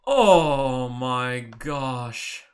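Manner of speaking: very slow, breathy-sounding awe; real slow amazement; awed. Real, not acted. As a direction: let the wonder stretch out. Awed by the chart.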